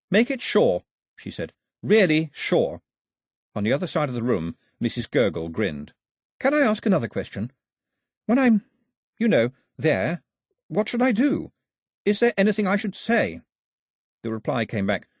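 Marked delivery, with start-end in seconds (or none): 0.1-2.8 higher, firm plea, slowed; insisting Daphne. A narrator's reading. 6.4-13.4 put-on much higher, stammering girl's voice; startled Daphne. A narrator's reading. Daphne asking.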